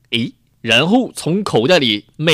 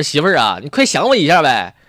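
calling out; 4 dB louder than usual. Retold or imitated. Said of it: "我就冲客厅喊".

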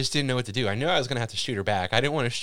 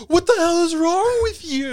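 laughing; 7 dB louder than usual. Retold or imitated. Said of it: "It's just like".

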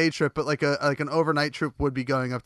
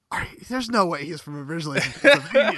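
incredulous, breaking into laughter; laughing disbelief; 6 semitones higher than usual. Retold or imitated. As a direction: retell your disbelief through laughs. Quoting own disbelief at accent.

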